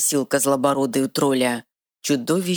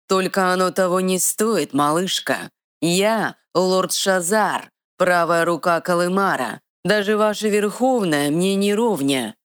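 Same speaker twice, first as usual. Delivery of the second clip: haughty dark lord; 5 semitones higher than usual. Acted.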